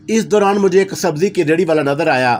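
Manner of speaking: ordinary delivery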